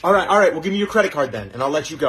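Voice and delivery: pushy robber. Acted. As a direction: lean in and demand it.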